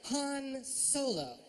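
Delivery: slow, dry restatement; flat statement. Shown as a demonstration. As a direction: state it back deadpan. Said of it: "Here's another one".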